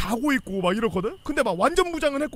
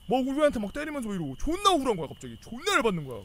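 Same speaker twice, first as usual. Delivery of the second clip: usual speaking voice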